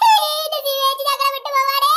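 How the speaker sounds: loud hammed-up wail; fake crying. Child making a show of grief for Sivechi, fake crying. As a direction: wail in mock grief, drawing out the endings. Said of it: "ഇതിന്റെ കള്ളക്കരച്ചിലല്ലേ?".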